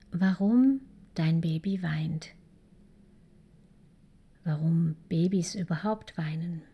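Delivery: ASMR whisper. Acted. Coach talking to new parents about crying, whispered. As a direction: whisper it close, as if a baby sleeps nearby.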